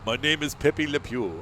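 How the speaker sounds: hammed-up French cartoon lover accent; Pepe Le Pew. Vlogger imitating a cartoon skunk's introduction, slow French accent. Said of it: "you can't do Pepe Le Pew".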